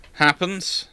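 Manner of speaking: ordinary talk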